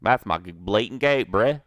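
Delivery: mock Canadian redneck goat owner. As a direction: ham up a Canadian redneck accent. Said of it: "in his Canadian redneck voice".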